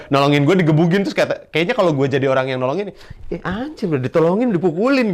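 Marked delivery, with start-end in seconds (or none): 3.3-5.1 mock angry helper. Imagined helper cursing back.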